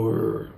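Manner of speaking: low, soft growl like a bear. Shown as a demonstration. Parent showing the bear's growl to a child, soft low growl. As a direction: growl it for the toddler. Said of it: "bears go".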